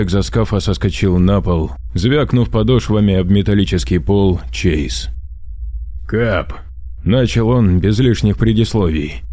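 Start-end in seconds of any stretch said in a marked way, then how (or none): 6.1-6.5 muffled by a mask. Acted. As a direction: voice through a breathing mask. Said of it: "Голос через маску доносился приглушённо". (приглушённо, как сквозь маску)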